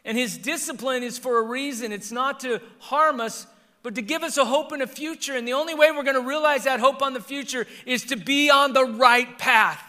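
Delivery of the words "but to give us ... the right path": high, loud pulpit delivery; loud, emphatic sermon push; forceful preaching. Real, not acted.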